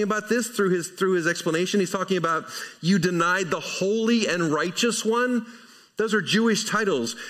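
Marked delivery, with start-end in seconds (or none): 2.8-5.5 accusing quote. Retold or imitated. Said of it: "don't think you read the inflection here that way".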